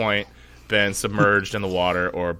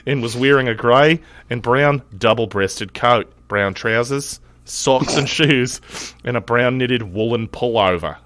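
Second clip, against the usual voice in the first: mild Australian accent. Shown as a demonstration. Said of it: "my shittiest Australian accent".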